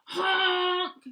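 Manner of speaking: loud high honking yell; loud bossy honk. Acted. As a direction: blare it like a big horn. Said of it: "yelled a dump truck".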